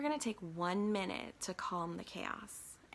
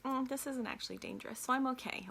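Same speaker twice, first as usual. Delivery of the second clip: body's calm inner voice; 5 semitones higher, 4 dB louder than usual. Retold or imitated. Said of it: "it sort of signals us".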